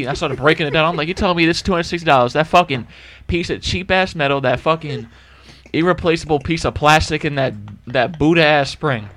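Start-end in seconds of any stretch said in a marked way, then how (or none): 1.1-9.1 itemise it with rising scorn; worked-up, higher-pitched complaint; moderately heated retelling of an argument; retold indignant rant. Retold rant, breaking the key down.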